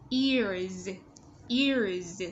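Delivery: EARS with a clearly voiced final Z; "Ears" said carefully with its Z ending; Z ending sound. Shown as a demonstration. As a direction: model "Ears" slowly, buzzing the last sound. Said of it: "Z ending sound".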